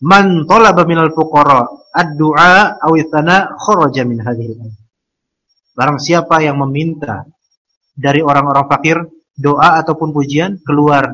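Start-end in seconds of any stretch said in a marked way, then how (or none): 0.1-4.8 Arabic quotation recited. Retold or imitated. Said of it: "kata Syekhul Islam Ibnu Taimiyah".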